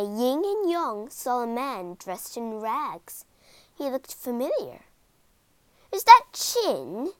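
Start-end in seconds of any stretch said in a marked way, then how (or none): 5.9-7.1 surprised. A narrator's reading. Brothers spot ragged Chin.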